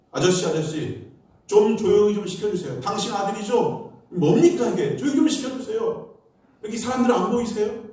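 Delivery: a hint of a scolding ajumma; irritated complaint. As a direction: confront the father like a fed-up passenger. Annoyed woman confronts father.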